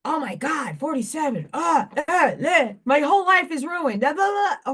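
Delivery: high, whiny mock lament over a ruined life; mocking despair. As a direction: ham up a dramatic wail of despair. Mocking people upset by election.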